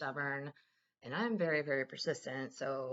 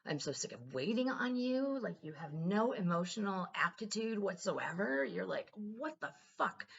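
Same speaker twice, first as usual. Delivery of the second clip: mild retold rant. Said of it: "this time I was like".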